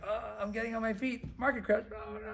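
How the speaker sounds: high-pitched comic wail; mock dismay. Struggling dentist hit by the market crash, mock wail. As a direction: pitch climbing into a hammed-up wail.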